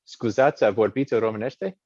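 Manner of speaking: speaking Romanian. Retold or imitated. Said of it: "I answer is".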